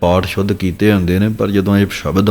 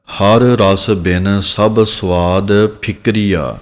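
slow recitation; much slower than usual. Shown as a demonstration. Teacher recites scripture line slowly.

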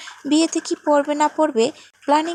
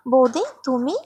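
breathless whispered greeting; surprised whisper. Acted. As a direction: hush it out in disbelief. Antara surprised to see Sarika. (অবাক হয়ে ফিসফিস করে)

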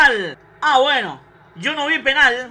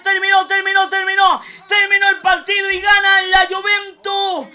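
excited; 3 semitones higher, 5 dB louder than usual. Real, not acted. Calling the final whistle.

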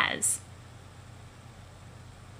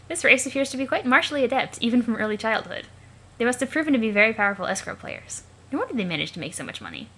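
alien observer narrator; faster than usual. Acted. Observer narrating a youngster's new eyewear, lifted formal voice. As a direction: narrate like a fascinated onlooker, pitch lifted. Character voice narrating what is watched.

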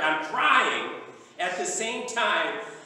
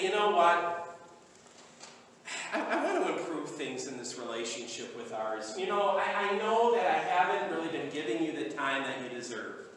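mock spouse talk; 5 dB quieter than usual. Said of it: "go to your spouse and say".

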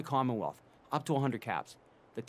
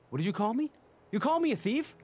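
fake outrage; 8 semitones higher than usual. Fake outrage at being called thief.

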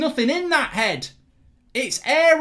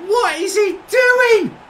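slower, shouting each word; slow angry shout; 6 semitones higher, 5 dB louder, slower than usual. Real, not acted. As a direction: drag it out in a furious shout. Repeat, louder and slower.

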